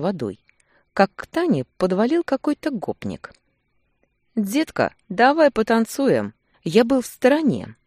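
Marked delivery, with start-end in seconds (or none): 4.3-6.3 put-on a sleazy thug hitting on a girl, drawn out; repulsive gopnik voice. A narrator's reading. Drunk thug pestering Tanya to dance, sleazy drawl. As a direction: leer it out, slow and pushy. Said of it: "его противный голос".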